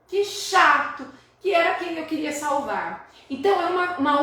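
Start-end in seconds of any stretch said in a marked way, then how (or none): 0.0-1.0 put-on "que chato" higher and louder, like a sorry child; boy telling his story. Teacher as the boy regretting he hit the rat. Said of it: "o menino tá contando". 1.4-3.1 put-on boy telling his story. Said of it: "o menino tá contando".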